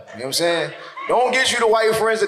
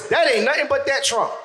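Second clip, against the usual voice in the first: put-on old folks saying; 4 semitones higher than usual. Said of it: "Now it's".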